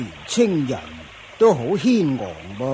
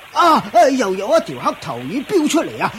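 surprised cry; 5 semitones higher than usual. Acted. Another fish leaps out.

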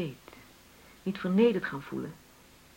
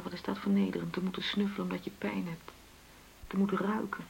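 pained whisper; 7 dB quieter than usual. Acted. Wife admitting humiliating snooping.

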